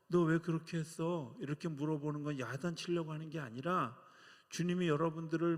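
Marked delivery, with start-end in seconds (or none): 0.1-1.4 1 raised voice. Acted. Voicing God's question.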